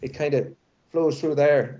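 light Irish accent with a flowing lilt; subtle Irish lilt. Shown as a demonstration. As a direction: let a little Irish flow through the words. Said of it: "little more of a lilt".

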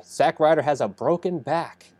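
mock-dramatic bad news reveal. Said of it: "and he pauses".

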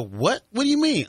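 retold puzzled protest, leaping high; bewildered "what do you mean"; baffled disbelief. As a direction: act out confused disbelief, voice jumping up. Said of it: "my expression is, my shoulders go up".

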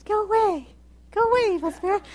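high, feeble little-girl mock voice; girly-girl mock. Preacher mocking girly angels shooing evil spirits, high girlish voice. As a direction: make a girlish, harmless shooing plea. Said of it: "scared off by these girls".

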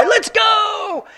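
big high rallying yell; battle cry. Retold or imitated. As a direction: shout them into the fight. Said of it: "And there's the battle cry".

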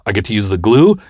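rising to a high, gleeful yes; hammed-up delight, bursting at the end; so excited. Stitches guy allowed to use glue, excited. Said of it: "He was so excited".

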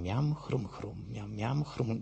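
quiet munching noises for a gnawing conscience; imitated munching. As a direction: chomp softly on each little noise word.

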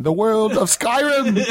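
a laughing mock British announcer; over-the-top accent. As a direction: drag out the British accent like a grand showman. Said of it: "You're getting a little crazy with that accent".

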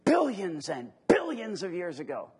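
lightly imitated science host, hitting the B in "billions"; a touch of the famous TV astronomer, punching "billions"; Carl Sagan impression. Preacher quoting the famous astronomer to his audience, a light imitation stressing "billions". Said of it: "as Carl Sagan used to say ... Emphasis on the B".

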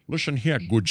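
Sean Connery impression. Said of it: "It's my Sean Connery".

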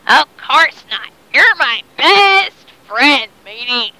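lightly voiced pirate buddy with drawn-out words; a hint of hearty pirate, stretched out slowly; pirate talk. Long John Silver reassures his captive, lightly voiced pirate. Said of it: "talking like a pirate now".

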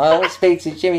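put-on high, loud, fast drunken pleading. Drunk fan pestering his friend at the bar, drunken insistence. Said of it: "in a pretty drunken voice".

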